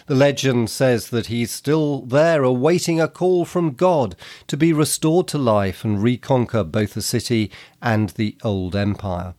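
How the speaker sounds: ordinary delivery, nothing marked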